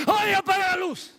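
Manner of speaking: high, loud startled yell; acted shout. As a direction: yell out an order as someone caught in the light. Acts out someone shouting in dark. (grito de alarma actuado)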